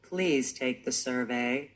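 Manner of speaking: low, slow, soft robot; slow-motion sultry machine voice; American sex bot robot. Acted. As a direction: drop deep and drag it out like a seductive bot. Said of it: "just do the sex bot robot".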